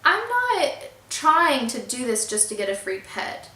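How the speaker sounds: mildly upset protest, drawn-out opening; retold upset protest. Renter protesting to the landlord about the free pet, mildly upset. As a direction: protest with a touch of hurt. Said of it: "I was really upset. I was like".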